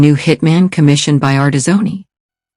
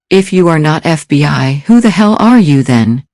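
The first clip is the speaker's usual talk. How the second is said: threatening; 3 semitones higher than usual. Acted. Gilhooly demands the stranger's identity, threatening and rising. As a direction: lean in and demand it, menacing. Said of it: "Gilhooly's tone was threatening".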